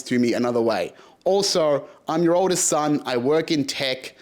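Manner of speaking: retold angry rant. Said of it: "And I was livid".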